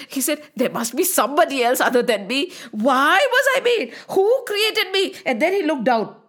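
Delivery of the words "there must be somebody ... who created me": worried. Acted. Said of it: "He was so worried".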